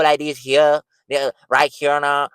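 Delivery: drawn-out Southern accent on the vowels. Shown as a demonstration. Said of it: "They might have an accent like this".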